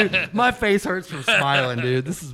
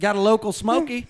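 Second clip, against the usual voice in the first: over cb radio; 6 semitones higher, 3 dB louder than usual. Pretend. CB trucker bit continues.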